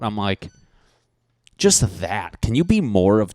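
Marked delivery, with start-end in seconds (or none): 1.6-3.3 loud mock-disgusted rant; retold yell. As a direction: lay into a friend, exaggeratedly appalled. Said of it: "I used to yell at my friend".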